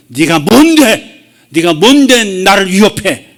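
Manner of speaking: slow, deliberate defiance; defiant challenge. Retold or imitated. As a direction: stand tall and challenge it slowly. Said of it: "이런 마음으로 벌떡 서치기를".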